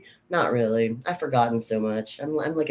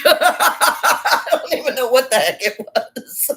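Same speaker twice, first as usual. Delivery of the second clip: high-pitched, quick words through laughter; laughing; 11 semitones higher, 4 dB louder, slower than usual. Real, not acted. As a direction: laugh all the way through the line. Laughing at her invented language name.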